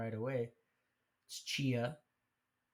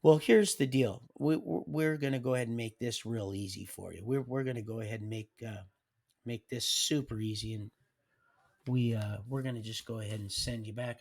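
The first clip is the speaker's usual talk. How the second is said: stern official; 6 dB louder than usual. Retold or imitated. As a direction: lay down the law firmly. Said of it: "And he said".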